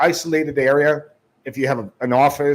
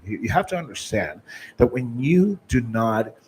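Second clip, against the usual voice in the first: slightly lowered, serious voice; really low, serious; 3 semitones lower than usual. Shown as a demonstration. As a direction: keep it low to draw them in. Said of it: "I went from going really low".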